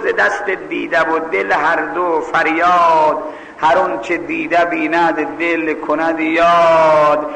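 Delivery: slow, measured chanting of verse; verse recitation. Acted. Preacher quoting a couplet on eyes and heart, slow recitation. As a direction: draw the couplet out evenly.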